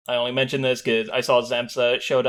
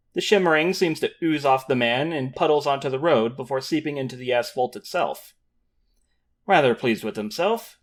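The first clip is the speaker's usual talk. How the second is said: story narration. A narrator's reading. GM continues scene narration.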